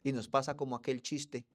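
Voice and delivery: usual speaking voice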